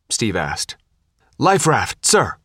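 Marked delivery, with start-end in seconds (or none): 1.4-2.4 a restrained parade-ground bark; mild military bark. A narrator's reading. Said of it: "Hasianik barked".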